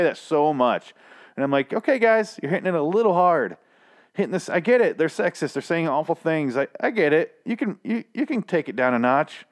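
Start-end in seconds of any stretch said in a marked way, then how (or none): 1.7-9.4 exasperated retort. Retold or imitated. Reviewer telling the show's writers to ease up, exasperated. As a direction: pitch it way up and complain to the writers. Retold reaction to the show.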